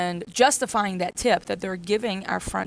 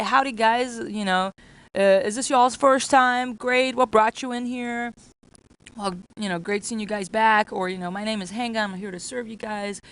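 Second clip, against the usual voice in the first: friendly server greeting. Shown as a demonstration. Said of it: "walk over, smile, and say".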